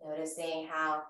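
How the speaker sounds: calm, measured yoga-teacher voice; guided breathing. Real, not acted. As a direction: gently guide them through each breath, unhurried. Leads guided breathing practice.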